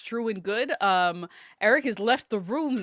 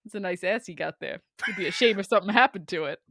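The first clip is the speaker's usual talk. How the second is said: low, sly mob threat; mock mobster threat; 3 semitones lower than usual. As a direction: purr it like a friendly thug. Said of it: "I'll just be like".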